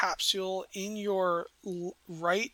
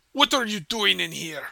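louder voice of a boarder challenging a stranger; talking too loud; 6 dB louder than usual. Acted. Boarder confronts a stowaway, too loud. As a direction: talk too loud, as if to someone who may not understand. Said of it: "he talks a little bit too loud".

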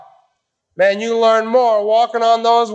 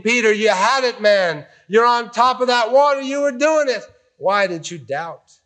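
compassionate; 2 semitones higher than usual. Retold or imitated. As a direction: gently coax Peter, no scolding. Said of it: "it's a compassionate thing. It's a loving thing".

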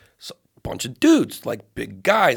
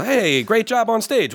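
drawn-out, higher-pitched praise; mock gushing; 8 semitones higher, slower than usual. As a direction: exaggerate the compliment nobody actually gave. Imagines the thanks never given.

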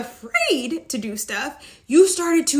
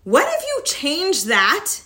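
normal talking voice

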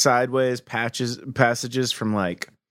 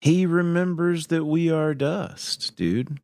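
stoner voice; 4 semitones higher than usual. Pretend. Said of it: "astonished stoner voice".

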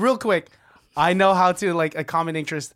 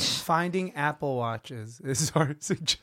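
caveman voice; 2 semitones lower, 5 dB quieter, slower than usual. Retold or imitated. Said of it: "Why did you say it like a caveman?".

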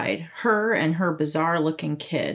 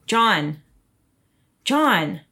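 calling out; 3 dB louder than usual. Acted. Wife calling him from outside.

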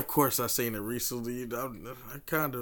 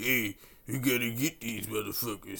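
French impression; 7 dB quieter than usual. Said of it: "That was my best French impersonation".

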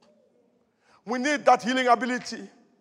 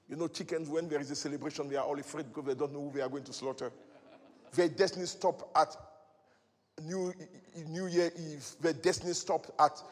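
much softer, lower, quick and half-laughing; hushed preacher's aside; 8 semitones lower, 9 dB quieter than usual. Acted. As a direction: drop to a confiding murmur.

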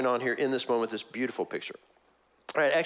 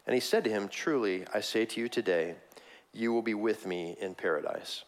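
scripture reading. Acted. Reads Luke 23 aloud in church.

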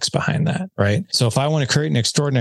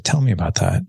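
gently curious invitation to say more; curious, not demeaning; 3 semitones lower than usual. Shown as a demonstration. Husband gently asking his wife about her day, curious. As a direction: ask it like you truly want to hear. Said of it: "in a voice tone that was curious and not demeaning".

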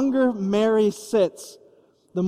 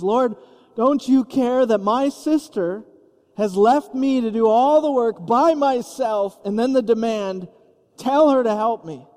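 martyr complaint; 2 semitones higher than usual. Acted. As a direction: play the put-upon martyr. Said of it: "now playing the martyr".

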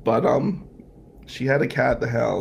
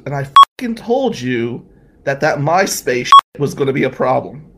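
I-told-you-so aunt; 8 dB louder than usual. Retold or imitated. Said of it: "Aunt Mary says".

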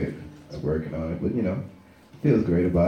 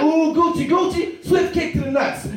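teasing tickler; 4 semitones higher than usual. Retold or imitated.

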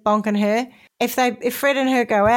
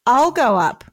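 lightly acted wifely insistence; insistent wife; 3 dB louder than usual. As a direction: repeat it firmly in a lightly voiced wife role. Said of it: "Dolly repeated".

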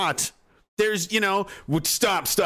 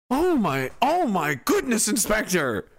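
higher hammed-up gasp of shock; mock shock; 3 semitones higher than usual. Listener to the inspector, hammed-up shock. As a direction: overplay the horror.

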